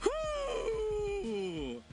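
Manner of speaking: high wheezing laughter breaking into a whew; laughing fit. Real, not acted. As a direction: crack up helplessly. Cracking up at own flub.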